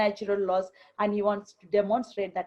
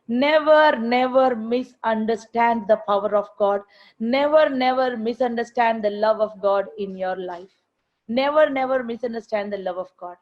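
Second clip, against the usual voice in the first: preaching emphatically; 4 dB louder than usual. Real, not acted. Preacher exhorting congregation.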